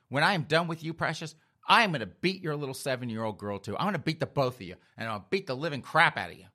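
emphatic, mock-furious tirade; acted angry threat. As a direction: hammer out threats at an enemy, hammed up. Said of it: "I am still pissed off".

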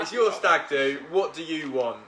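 laughing through a mock-emotional "It's your stag do"; half-laughing, hammed-up tearful retelling; mock choked up. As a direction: pretend to well up, then crack into laughter. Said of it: "Oh, I'm choking up".

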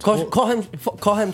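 cross. Real, not acted. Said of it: "you sounded very cross when you were saying it".

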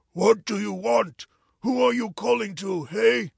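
loud hoarse challenge across the street; hoarse calling out. Acted. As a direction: call back roughly, loudly. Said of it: "in just the same hoarse voice".

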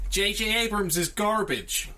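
slow, high, put-on rant voice; mock Tarantino-style jab; Tarantino rampage. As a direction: declare it like an angry director.

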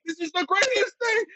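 very high mock enthusiasm; hammed-up squeaky excitement; gushing client. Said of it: "the client's like".

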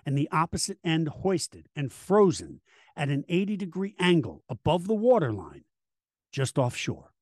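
grave documentary narrator read; dramatic narration. Acted. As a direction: tell it like a history documentary. Host reads dramatic documentary intro.

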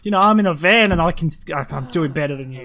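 high, loud mocking whine; sneering mimic of a driver; whiny driver.

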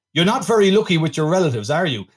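lightly imitated Yorkshire soap accent; a hint of Emmerdale in the accent. Host quoting the film's bad Scottish accent, sounding like Emmerdale. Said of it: "sounds like he's in Emmerdale".

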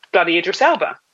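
whispered in awe; awed whisper of a celebrity name. Real, not acted. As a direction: breathe the name like a secret. Starstruck reveal of celebrity.

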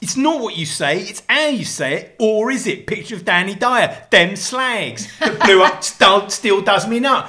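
hammed-up, drawn-out Cockney; mock Cockney. Husband reads the accent story to wife, hammed-up Cockney. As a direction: read it out like a cartoon Cockney. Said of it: "the Cockney thing".

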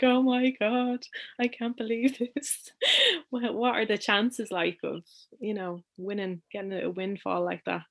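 a lightly voiced, moved "oh my God"; emotional disbelief. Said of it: "she was getting all emotional".

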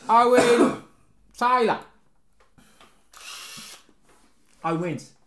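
put-on light Cockney accent. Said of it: "take the Cockney accent away".

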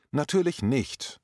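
höher und langsam, schroff abweisend; curt answer. Retold or imitated. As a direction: ein knappes, abweisendes Nein. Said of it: "war die schroffe Antwort". (schroff und langsam, leicht nachgespielt)

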